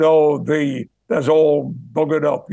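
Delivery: a touch of Yorkshire speech; Yorkshire dialect. Retold or imitated. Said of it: "what Yorkshire people said".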